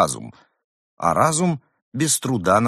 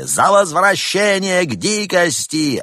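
high, loud crowd chant; crowd yelling; 10 semitones higher, 5 dB louder, slower than usual. Acted. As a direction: yell it back as the crowd. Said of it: "Вопли".

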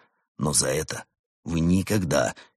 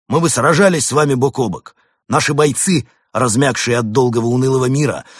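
loud, high, grandiose war speech; hammy stage actor; 6 semitones higher, 7 dB louder than usual. A narrator's reading. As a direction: declaim it like a pompous general. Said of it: "с пафосом воскликнул полковник".

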